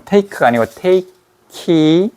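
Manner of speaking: "take" said slowly, t bending toward r into "it"; slow linked "take"; slow take demo. Shown as a demonstration. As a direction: draw out "take" before linking. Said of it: "여기에 R이 바뀌잖아".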